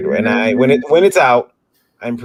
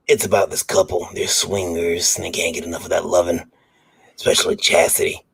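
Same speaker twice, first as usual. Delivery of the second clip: perv voice. Pretend. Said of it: "Do it in the perv voice".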